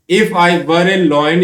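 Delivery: very slow, each word spaced out; teacher reading "If I were a lion" slowly for note taking; slow dictation. Shown as a demonstration. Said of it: "यदि मैं एक शेर होता".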